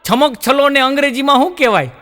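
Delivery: put-on a back-bench boy yells out his question; calling out to teacher. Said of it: "ટીચરને રાડ પાડી". (પાછલી પાટલીનો છોકરો ટીચરને મોટેથી બૂમ પાડે છે)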